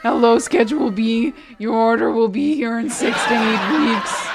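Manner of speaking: loud, strained kid-from-a-cartoon voice; Simpsons kid imitation. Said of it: "not nearly as bad as I am there".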